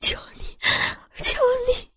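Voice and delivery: high, pleading beg. A narrator's reading. Sister begging the gunman, high and pleading. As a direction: beg him desperately. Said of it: "哀求道".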